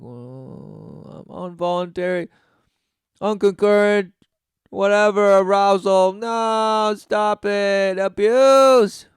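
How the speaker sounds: high, loud, shrill-pitched mock outrage rising to a yell; mock hysterical protest. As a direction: ham up a defensive woman crying abuse. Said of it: "And you're like".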